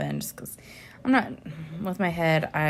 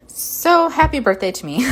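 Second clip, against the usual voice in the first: laughing; 8 semitones higher, 7 dB louder than usual. Real, not acted.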